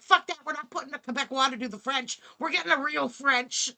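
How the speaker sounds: mocking Ontario. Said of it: "They're like".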